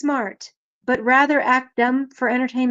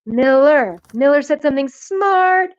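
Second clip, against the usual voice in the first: excited praise; 3 semitones higher than usual. Real, not acted. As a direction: voice leaping up, delighted exclamations. Cheering on a chat member's remark.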